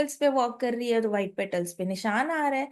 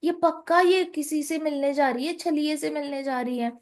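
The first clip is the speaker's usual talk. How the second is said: higher, sharp suspicious questioning; suspicious, needling her mother; suspicious daughter; 4 semitones higher than usual. Acted. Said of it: "And Kutila is like". (माँ पर शक भरे ऊँचे सवाल)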